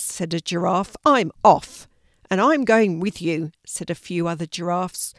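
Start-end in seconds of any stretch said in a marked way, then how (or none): 1.1-3.5 indignant exit. A narrator's reading. Giraffe storms out of meeting.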